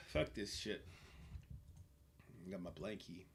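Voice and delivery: ordinary delivery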